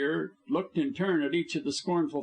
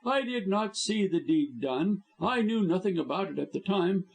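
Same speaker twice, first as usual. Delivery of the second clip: higher villain voice, pleased with himself; gloating high villain voice; scheming blackmailer; 8 semitones higher than usual. A narrator's reading. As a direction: lay out the terms smugly. Blackmailer boasting.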